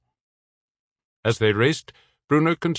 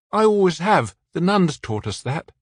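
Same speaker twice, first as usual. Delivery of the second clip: higher, a hint of a local French accent; a small local French lilt, a touch louder; 9 semitones higher, 4 dB louder than usual. A narrator's reading. Man on the tower recalling the nuns, local French accent. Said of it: "the man said in a local accent".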